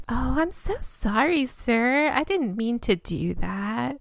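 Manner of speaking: put-on sweet apologetic Valley Girl voice; a light, cutesy Valley Girl apology. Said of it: "She from California?".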